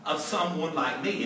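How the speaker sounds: high, slow, stunned pleading to the Lord; shocked disbelief. Retold or imitated. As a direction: play Peter aghast that his master kneels. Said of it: "because Peter was put in shock".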